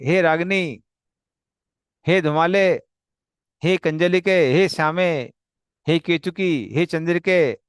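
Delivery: calling each cow by name across the forest. Acted. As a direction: summon the cows one by one. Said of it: "call each one of them by their names".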